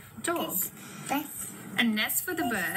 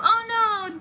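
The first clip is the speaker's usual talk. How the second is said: high, loud pretend alarm; exaggerated storybook panic; mock dismay; 12 semitones higher, 7 dB louder than usual. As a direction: cry out in playful horror. Broom breaks, animals fall.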